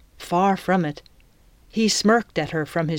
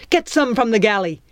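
snarling; 4 semitones higher, 4 dB louder, faster than usual. Acted. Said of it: "the captain snarled".

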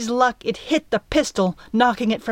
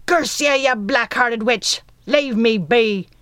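furious pirate voice, louder; cursing pirate; 3 semitones higher, 3 dB louder than usual. Acted. Burning pirate curses Midge on the ladder, angry. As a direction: spit curses while kicking free.

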